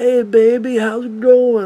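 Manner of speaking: slow, high, laid-back easygoing hippie talk. Imitating how a movie's buddy character talks: imitating a hippie-like voice. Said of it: "trying to talk like a hippie".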